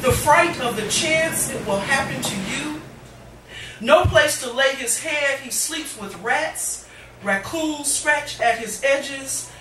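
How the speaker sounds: rhythmic, weighted spoken word; impassioned poetry reading; poem recitation. Acted. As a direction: perform it to a live audience.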